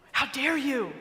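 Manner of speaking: How dare you snapped at normal pace; bitter retort. Retold or imitated. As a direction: throw How dare you straight back at him. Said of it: "The resentment just bubbles over".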